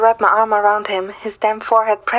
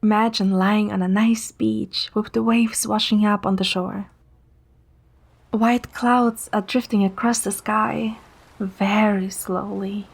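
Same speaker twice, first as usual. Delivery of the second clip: guided meditation. Acted. Narrator guiding Zane to sleep with a meditation voice. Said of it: "I will show you the meditation method".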